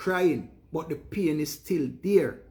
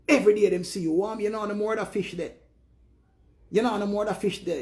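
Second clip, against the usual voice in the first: higher, whiny voice of the neighbours; mock nagging neighbour; 5 semitones higher than usual. Neighbour griping to the giver, higher nagging voice. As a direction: play the jealous neighbour griping.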